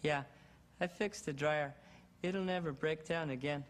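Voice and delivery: lightly voiced shy kid; a hint of a timid boy genius; Brad. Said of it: "Brad was a very shy, funny little guy".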